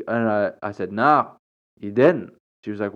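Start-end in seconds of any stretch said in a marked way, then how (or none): 0.9-2.3 louder, flat-out blunt retort; matter of fact. Retold or imitated. She answers the churchgoer's hint, blunt and matter of fact. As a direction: shut the hint down, plainly. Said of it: "so matter of fact about it".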